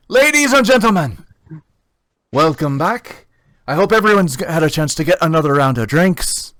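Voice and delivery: booming ringmaster welcoming the crowd; arena announcer. Acted. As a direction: announce it big to the fight pit crowd.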